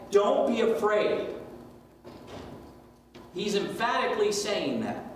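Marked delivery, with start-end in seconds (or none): 0.1-1.3 loud, slow and high, each word pressed; a firm, raised don't be afraid; emphatic. Shown as a demonstration. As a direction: command it so they can't ignore it. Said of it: "That's an emphatic".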